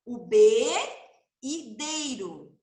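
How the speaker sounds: o B e deiro ditos devagar e em pedaços; sílabas separadas. Shown as a demonstration. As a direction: separe B e deiro bem lento. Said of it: "Como que a gente fala". (B e deiro separados)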